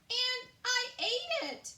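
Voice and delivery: high, loud, slow wail of disgust; horrified cry. A narrator's reading. Queen realizing she ate the rat's soup. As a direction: wail in horror at what you swallowed. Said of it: "she cried".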